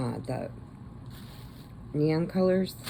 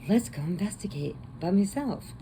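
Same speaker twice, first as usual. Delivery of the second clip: mock whisper; 5 semitones higher than usual. Mocking horror heroine.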